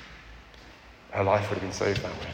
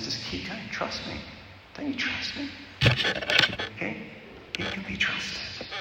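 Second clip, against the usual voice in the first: tag choked up; 12 semitones higher, 5 dB quieter than usual. Real, not acted. Preacher choked up relaying God's words.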